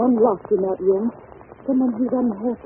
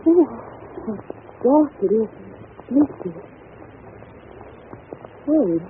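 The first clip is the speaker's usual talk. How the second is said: ordinary delivery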